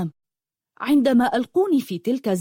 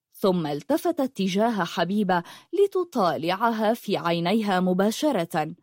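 usual speaking voice

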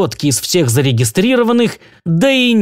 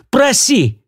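much higher eager cry; elated shout; 8 semitones higher than usual. A narrator's reading. Milt urging Naomi to ask anything, elated. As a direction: fling it out in delight. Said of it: "восторженно заорал Милт".

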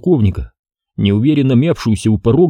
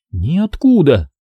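sulky grumble; 6 semitones higher, much slower than usual. A narrator's reading. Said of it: "надувшись, буркнула девчонка".

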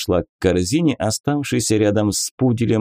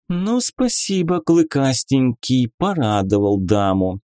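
higher, teasing lady; lady inquisitor voice; 4 semitones higher than usual. Acted. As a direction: play a coy, mocking lady. Beatrisa, playful inquisitor lady. (игривая дама-инквизитор)

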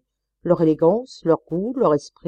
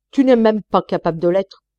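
much louder furious jab; exasperated cry; 2 semitones higher, 7 dB louder than usual. Acted. Wife crying out at her husband in exasperation. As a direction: shout it at the end of her tether. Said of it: "cria madame au comble de l'exaspération".

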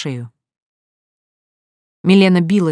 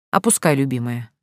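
lower-pitched, gentle instruction; tender; 4 semitones lower than usual. A narrator's reading. Husband telling his wife to work the winch, tenderly. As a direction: say it fondly, pitch dropped. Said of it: "ласково взглянув на жену".

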